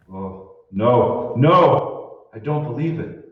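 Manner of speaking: shocked disbelief. Acted. Burkhardt sees the chasm.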